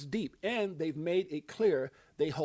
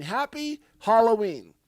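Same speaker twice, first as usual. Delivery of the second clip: louder, higher drawn-out "Happy Halloween"; festive greeting; 6 semitones higher, 10 dB louder, slower than usual. Real, not acted. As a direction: sing it out to her, slowly. Festive greeting to his queen.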